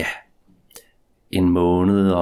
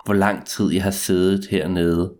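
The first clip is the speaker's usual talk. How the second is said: story narration. A narrator's reading. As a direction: draw out each line like a ghost story. Spooky first-person tale after intro.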